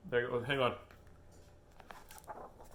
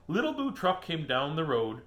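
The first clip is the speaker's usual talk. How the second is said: lilting storybook read; reading to a child. Acted. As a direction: read it like bedtime to a toddler.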